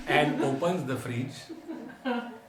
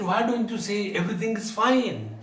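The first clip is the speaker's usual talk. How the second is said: higher pitch, last word stretched long; upbeat urging; 6 semitones higher than usual. Retold or imitated. Swamiji urges the old man to be positive, upbeat. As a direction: urge brightness, drawing out "fine".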